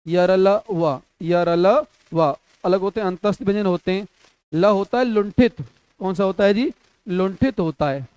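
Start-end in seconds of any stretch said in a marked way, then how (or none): 1.2-2.4 slow teaching repeat; drawn out very slowly. Shown as a demonstration. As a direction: stretch each syllable of यरलवा, slow and clear. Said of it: "slow repeat".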